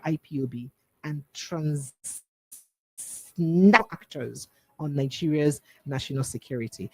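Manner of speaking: measured news-anchor delivery, key words punched; news read. Real, not acted. Radio host reading Biafra story to listeners, formal news read. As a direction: read the bulletin with formal emphasis.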